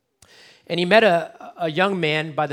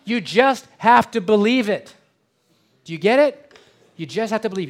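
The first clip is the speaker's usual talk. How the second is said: much louder and higher, forceful; emphatic preaching; 7 semitones higher, 12 dB louder than usual. Real, not acted. Pastor insists to the congregation, loud and forceful.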